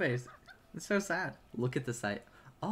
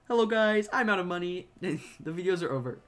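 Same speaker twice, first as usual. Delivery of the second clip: Mister Beast; 3 semitones higher than usual. Pretend. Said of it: "Oh, Mister Beast".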